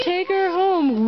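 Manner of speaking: slow insistent repeat. Real, not acted. Urging the bear, repeated slower.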